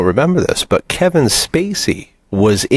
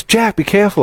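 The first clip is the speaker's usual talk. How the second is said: retold warning; 11 semitones higher than usual. Retells warning about piranha in water.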